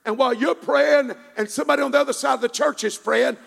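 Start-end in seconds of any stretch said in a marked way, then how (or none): 1.9-3.4 fervent, rolling pulpit build; driving sermon climax, climbing high at the end; full-force preaching. Real, not acted. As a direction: preach it with rising force, phrase upon phrase.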